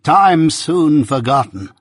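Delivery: drawn-out anguished cry; moaned lament. A narrator's reading. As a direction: moan it out with rising grief. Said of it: "moaned Miss Havisham".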